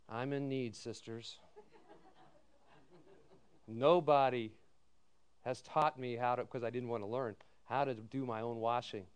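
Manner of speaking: soft, low helpless plea; begging the sisters for help; mock pleading. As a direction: play the helpless student.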